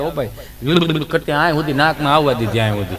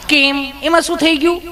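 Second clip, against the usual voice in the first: high, sugary nurse voice, teasing; sweet nurse voice; 9 semitones higher than usual. Acted. Nurse sweetly questions nervous Gabho, high cooing voice. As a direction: coo at him like an overly sweet nurse.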